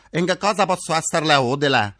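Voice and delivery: polite call center greeting; customer service voice. Retold or imitated. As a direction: routine phone operator tone. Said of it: "mi hanno accolto così".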